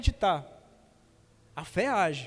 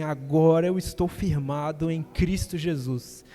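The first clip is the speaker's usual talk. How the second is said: slow, emphatic declaration of faith; firm conviction; 5 semitones lower, 5 dB louder, slower than usual. Retold or imitated. Preacher recalls accepting Jesus at the altar, firm conviction. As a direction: preach it with total certainty, building louder. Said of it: "uma certeza, falei assim".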